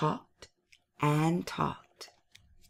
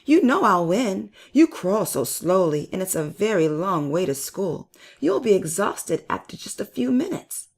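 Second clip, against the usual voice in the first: higher, louder teasing hare; taunting; 3 semitones higher, 4 dB louder than usual. Acted. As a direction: needle your friend, sure you'll win. Hare taunts tortoise before race.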